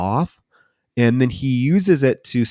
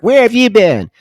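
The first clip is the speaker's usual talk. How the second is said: worried mom; 12 semitones higher, 8 dB louder than usual. Retold or imitated. Mother questions son in retelling.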